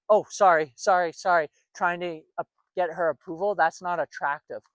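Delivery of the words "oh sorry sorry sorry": mock reflex apology, repeated sorries; hammed-up hasty apology, louder at the start; knee-jerk apology. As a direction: imitate someone apologizing automatically to win approval. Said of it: "just apologizing and knee-jerk apologizing".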